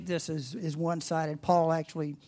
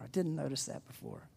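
softer, musing repeat; 3 semitones lower, 9 dB quieter than usual. Pretend. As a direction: murmur it to yourself. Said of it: "repeat of the quote".

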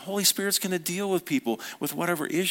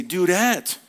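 higher, firm falling call; emphatic address; 4 semitones higher, 4 dB louder than usual. Acted. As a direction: call it out to get attention. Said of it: "I say".

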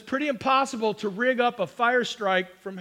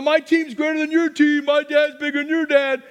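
trash talk; 3 semitones higher, 4 dB louder than usual. Retold or imitated. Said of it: "the nineties trash talk".

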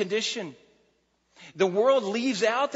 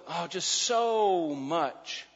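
slow, gushy mock tone on Oh, just so much; gushy reading; much slower than usual. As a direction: drag it out like sentimental gush. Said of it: "We think of the word "so" as".

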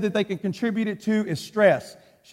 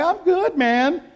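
higher, falsely breezy brush-off; fake cheerful; 5 semitones higher, slower than usual. Preacher lying to the pastor on the phone, mock cheerful. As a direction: cover it up with a bright fake okay. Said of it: "I totally lied".

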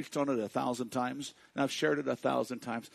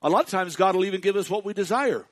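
1 preaching at full force; 5 semitones higher, 10 dB louder than usual. Real, not acted.

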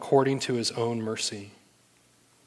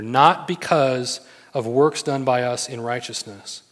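slow, deliberate emphasis; measured, insistent scripture quote; emphatic; 4 dB louder, slower than usual. Acted. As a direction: read it out slowly and emphatically. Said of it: "he's emphatic here".

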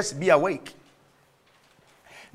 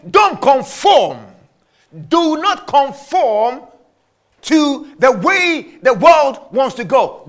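forceful preaching; slower than usual. Acted.

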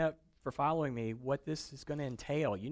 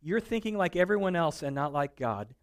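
mock rebuke; 2 semitones higher, 4 dB louder than usual. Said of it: "he turns to Peter and he says".

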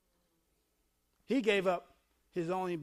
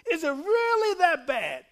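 higher-pitched imitation of a dad, stress on REALLY; dad's exasperated challenge; 7 semitones higher, 5 dB louder than usual. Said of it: "My dad used to say".

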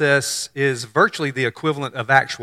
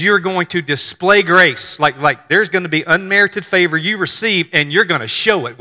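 casual angel; 3 semitones higher than usual. Retold or imitated. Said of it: "speaking very casually to her".

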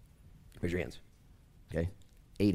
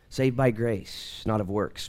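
slow, even statement of the doctrine; measured first statement before the emphatic repeat; much slower than usual. Shown as a demonstration. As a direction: lay it down slowly and plainly. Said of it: "But listen, please".

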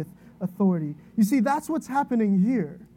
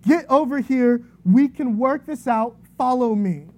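firm, louder call to a panicking crowd; shouted orders; 2 semitones higher, 5 dB louder than usual. Retold or imitated. Woman in a burning building calling the panicked crowd, commanding shout. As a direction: take charge and shout them into line. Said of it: "this woman screams out".

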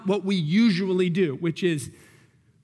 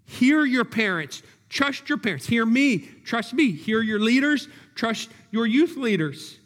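pleading cry; 2 semitones higher than usual. Real, not acted. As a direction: plead with them, line by line.

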